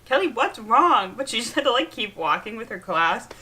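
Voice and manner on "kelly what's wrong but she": worried sister. Retold or imitated. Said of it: "she's like".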